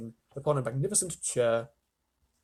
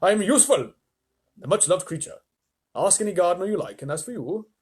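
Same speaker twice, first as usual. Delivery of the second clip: much higher, louder protest; indignant earthworm; 4 semitones higher, 4 dB louder than usual. Acted. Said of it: "the earthworm said".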